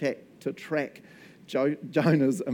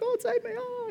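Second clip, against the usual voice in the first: Jonah. Acted. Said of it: "he's repentant as he's drowning".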